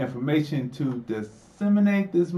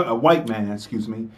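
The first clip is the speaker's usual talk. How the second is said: ordinary delivery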